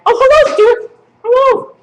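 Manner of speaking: high, loud hello to a puppet; playful greeting. Pretend. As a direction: greet a little puppet brightly. Greeting a puppet just pulled out.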